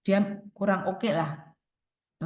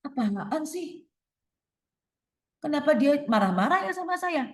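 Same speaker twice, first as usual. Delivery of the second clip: put-out, higher-pitched complaint; acted displeasure; 5 semitones higher than usual. Speaker voicing Laskar's reaction to being scolded, displeased. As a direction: protest as the offended listener. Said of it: "dia nggak suka banget".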